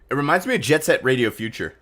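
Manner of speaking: talking while eating; words round a bite of food; mouth full. Real, not acted. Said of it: "As you hear me eat".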